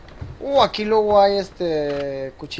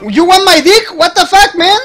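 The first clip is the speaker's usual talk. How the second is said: louder, higher, shocked disbelief; outraged yell; 5 semitones higher, 4 dB louder than usual. Real, not acted. Gamer outraged at another player's remark, loud. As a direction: fire it back in outrage.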